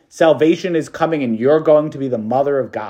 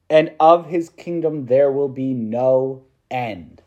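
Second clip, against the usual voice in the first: slow, measured gospel reading; scripture reading. Acted. Preacher reads the angel's words from Luke, slow and solemn. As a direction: proclaim each phrase slowly, with weight.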